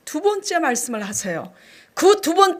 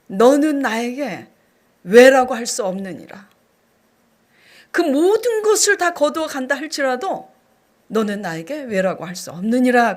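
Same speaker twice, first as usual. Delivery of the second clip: solemn divine voice; 3 dB louder than usual. Retold or imitated. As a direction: intone it like a lightly stern heavenly rebuke. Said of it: "성령님께서 제게 이렇게 말씀하시더라고요".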